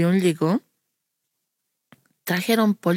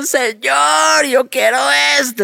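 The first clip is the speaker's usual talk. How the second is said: high, loud plea to God; imitated shouted prayer; retold crying-out prayer; 8 semitones higher, 5 dB louder than usual. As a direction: cry it out like a child begging. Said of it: "estaba gritando".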